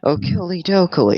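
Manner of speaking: chirpy okey dokey, lightly voiced; a hint of cheery neighbour; Ned Flanders. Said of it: "Why did I do a Ned Flanders impersonation?".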